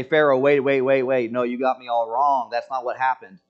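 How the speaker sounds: mock protest of innocence to the king; lightly voiced frantic excuse; pleading Abraham. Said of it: "Abraham doesn't say".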